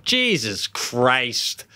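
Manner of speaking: very slow, stretched-out swear; drawn-out exclamation. Retold or imitated. Father imitating daughter when a bike fell, drawn-out exclamation. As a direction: draw out both words in dismay. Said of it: "she gave a good".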